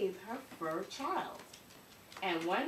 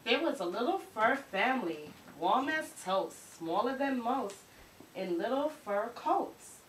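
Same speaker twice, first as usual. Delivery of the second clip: put-on reading to a toddler. Reads picture book aloud.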